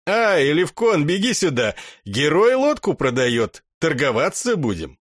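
loud call to his brother. Acted. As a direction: shout it across to him. Herder calls brother over.

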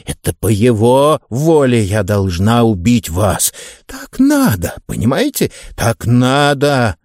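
a fanatic killer, calm and certain; slasher killer. Acted. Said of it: "earlier reader: slasher killer".

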